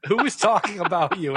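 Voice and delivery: lightly mimicked timid reporter; a touch of mock timidity; Erin Andrews timid. Reporter asks player who was talking, lightly timid. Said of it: "in a very, like, uh, timid voice".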